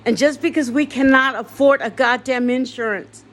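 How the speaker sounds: grieving patient shouting down the hospital that failed her family; angry rant. Real, not acted. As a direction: let the anger at the hospital boil over.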